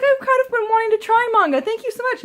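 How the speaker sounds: very high, gushing thanks; excited retelling. Retold or imitated. Thanking mom for the manga, excited. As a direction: squeal your gratitude. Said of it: "I was so excited".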